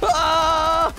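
alarmed yells; panicked scream. Real, not acted. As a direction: shout in alarm. Getting shot.

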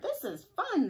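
high, loud joyful exclamation; excited cheer. Acted. All the animals riding around the barnyard, gleeful cheer. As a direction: shout it with glee.

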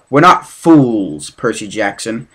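slow, deliberate, menacing teacher voice; slow, looming menace from the monstrous teacher. Acted. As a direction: draw each word out like a threat. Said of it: "Miss Dodds said".

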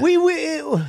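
very high, slow stammer of outrage; too exasperated to finish the sentence; incredulous sputtering. Acted. Exasperated rant about technology.

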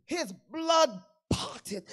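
slow preacher's shout; shouted refrain. Acted. Pastor repeats the refrain to the church, shouting.

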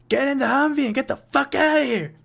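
high, urgent yell over gunfire. Acted. General yells at the players to flee, shouting orders. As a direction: order them out at the top of his voice. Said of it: "he yells at you guys".

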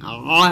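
আ squeezed from the throat; throat-pressed Arabic Ain as আ. Shown as a demonstration. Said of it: "এই যে চাপ দিন".

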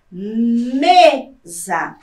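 "mesa" with ME held long and strong, then a short "sa"; stress on ME. Shown as a demonstration. Teacher giving students an example, ME of "mesa" drawn out. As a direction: split "mesa", leaning hard on the first syllable. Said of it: "como a sílaba me da palavra mesa".

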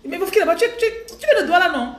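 high, loud mock Gabonese accent; hammed-up Gabonese questioning. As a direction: tease in an exaggerated Gabonese French lilt. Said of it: "ils ont oublié l'accent camerounais".

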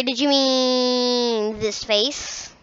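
quiet, slowed-down question; slow it down and drop the volume; soft slow. Pretend.

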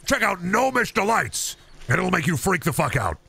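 high, pushy infomercial pitch; hard-sell the gnome pills; supplement pitch. Acted. Host pitching supplements to his listeners, pushy sales voice.

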